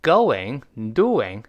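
GOING as "go-wing", DOING as "du-wing"; GOING and DOING with clear w glides; linking w. Shown as a demonstration. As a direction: round the lips for a w in GOING and DOING. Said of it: "注意这个口型".

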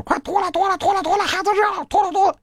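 high, fast, insistent mock nagging shout; high-pitched hammed-up nag, rapid and repetitive; nagging mom. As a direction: shout it over and over like a nagging mother. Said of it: "一直在那说".

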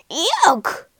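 high, choked "yuck"; hammed-up disgust after coughing. A narrator's reading. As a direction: spit it out in revulsion. Warthog disgusted by the drink.

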